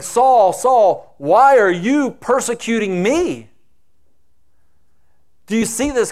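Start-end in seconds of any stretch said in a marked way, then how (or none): 0.0-3.5 loud, higher, solemn call from above; heavenly voice. Acted. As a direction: thunder it down as the voice from heaven. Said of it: "the voice comes out saying".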